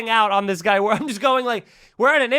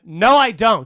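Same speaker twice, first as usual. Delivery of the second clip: louder, firm contradiction; defiant retort; 5 dB louder, slower than usual. Retold or imitated. Renter contradicts partner smoothing things over, defiant retort. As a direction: push back hard and loud.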